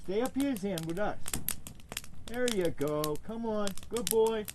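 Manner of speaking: high, soft coaxing and praise; dog praise voice. Real, not acted. Owner coaxing Zan to stay, then praising him high and soft. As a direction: praise him like a good puppy.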